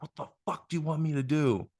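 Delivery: mild mock yell, pitched high; retold angry yell. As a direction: imitate an exasperated mother's outburst without full volume. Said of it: "she yells at me. She's pissed".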